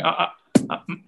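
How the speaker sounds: stuck on a word, halting ums and uhs; demonstrated hesitation with broken fillers; hesitating. Shown as a demonstration. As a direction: stumble and stall before a hard word. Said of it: "every time I'm trying, uh, trying to say".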